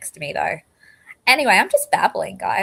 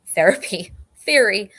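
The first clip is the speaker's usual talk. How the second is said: laughing at a slip; 5 dB louder than usual. Real, not acted. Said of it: "My goodness, guys, my words".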